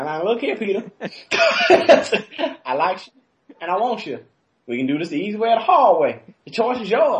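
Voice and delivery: lightly voiced menacing come-on; a hint of a creepy prison suitor; booty warrior impression. Podcast host voicing the booty warrior, mock menace. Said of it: "He's gonna be like the booty warrior".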